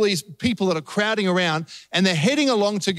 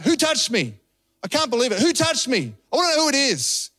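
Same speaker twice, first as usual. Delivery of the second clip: mildly accusing, raised pitch; 5 semitones higher than usual. Acted. Preacher mimics how he used to read Jesus, accusing tone. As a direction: demand it like an offended teacher, without shouting. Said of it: "read this story with a tone in Jesus".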